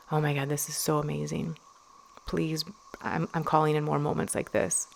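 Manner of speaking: soft hushed whisper of delight. Shown as a demonstration. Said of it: "Whispering in those moments".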